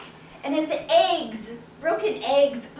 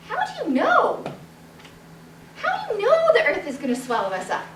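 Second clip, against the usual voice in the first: out of breath; 7 semitones higher, faster than usual. Acted. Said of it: "huffing and puffing, all out of breath".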